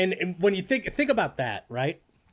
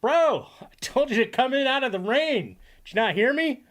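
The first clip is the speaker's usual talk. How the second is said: higher, mock-stern Dell voice; imitating Dell; 9 semitones higher, 4 dB louder than usual. Streamer quoting Dell's favorite line in a higher mock voice. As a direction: play Dell scolding the guy with a raised pitch. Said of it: "My favorite Dell line is".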